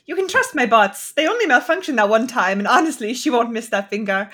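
mock German gadget voice. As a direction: ham up a German character line. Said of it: "not subtext horny, but I like".

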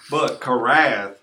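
karath said slowly, stress on KA; slow careful karath; Hebrew word. Shown as a demonstration. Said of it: "no sense in asking for a correct pronunciation".

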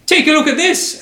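high-pitched mock shout from the crowd; heckling audience member. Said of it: "I'm gonna fuck up his accent".

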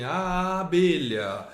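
"abelha" with a long drawn-out first A; primeiro som isolado. Shown as a demonstration. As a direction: hold the opening A of "abelha", then say the rest. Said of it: "isolando o primeiro som da palavra". ("abelha" com o A inicial bem esticado)

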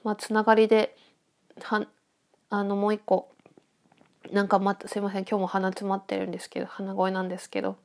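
talking through a blocked nose; nasal, congested voice; stuffy nose. Real, not acted.

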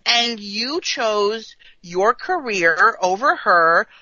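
emphatic telling-off, leaning on key words; indignant scolding. Acted. Fan telling Riker he chose career over her, indignant. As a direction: lay out the blame point by point.

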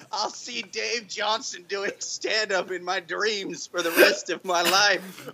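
lightly voiced grizzled veteran reminiscing; mock solemn war story; hammy war veteran. Mock war veteran monologue, music.

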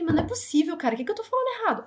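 high-pitched, rapid exasperated protest. Retold or imitated. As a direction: retell it as a baffled, frustrated complaint. Retells her exasperated reaction in shop.

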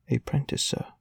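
a touch of fear, voice lifted; the orphan asks the beadle fearfully; trembling child. A narrator's reading.

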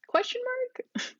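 breathy high whisper. Real, not acted. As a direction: whisper it aside. Whispered aside while reading.

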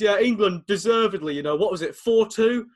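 mock a pundit unsure of the score; imitating Jack Charlton. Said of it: "and he goes".

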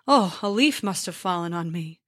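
drowsy, half-asleep giant grumbling; sleepy giant mumble. Acted. Sleepy giant Skyrmir mumbles at the tap on his head. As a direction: mumble it like a giant barely awake.

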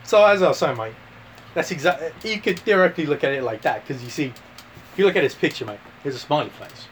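Aussie explainer, pausing between phrases; mock Australian accent. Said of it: "Australia, mate".

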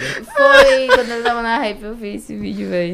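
words cracking with laughter; laughing. Real, not acted. Laughing at the vine video.

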